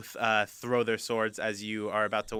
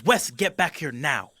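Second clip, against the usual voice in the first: firm call; 4 semitones higher, 5 dB louder, slower than usual. Acted. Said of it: "She goes".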